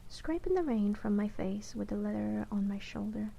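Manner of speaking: measured audiobook-style reading; narrating a novel in first person; story narration. A narrator's reading. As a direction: read the fantasy tale aloud, evenly paced. Reads the novel aloud.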